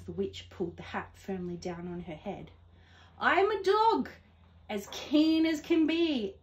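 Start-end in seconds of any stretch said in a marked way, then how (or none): 3.2-6.4 higher and louder, bursting with eagerness; an eager pup begging to come along; eager dog. Acted. Dog asking the witch for a ride, eagerly. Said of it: "eagerly said".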